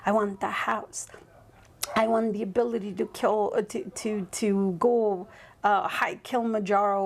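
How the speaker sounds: breathy whispered wanting. Retold or imitated. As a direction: whisper it like a secret craving. Voicing desires of wanting more.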